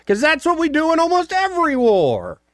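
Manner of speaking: high mock voice. Host mocking U.S. war policy, high silly voice.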